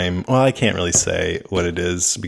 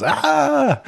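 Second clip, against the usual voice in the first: imitated scream. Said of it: "and she goes".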